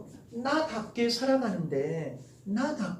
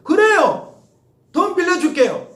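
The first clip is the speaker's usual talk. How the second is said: loud, bright eager agreement; eagerly agreeing to lend money; eager yes; 9 semitones higher, 8 dB louder, slower than usual. Pretend. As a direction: shout a happy yes to the student. Mock eager reply to borrowing.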